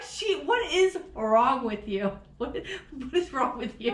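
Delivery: drawn-out question breaking into laughter; laughing self-scolding. Retold or imitated. Host asking herself what is wrong, laughing exasperation. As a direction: scold yourself, helpless with laughter.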